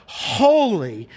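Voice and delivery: each HOLY drawn out and falling; imitated seraphim cry. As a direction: proclaim "holy" as a long, separate cry. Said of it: "he heard the seraphim cry out".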